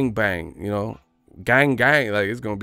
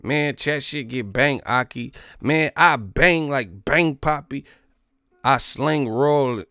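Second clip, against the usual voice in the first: mock British accent; 5 semitones higher, 5 dB louder, slower than usual. Mocking London slang.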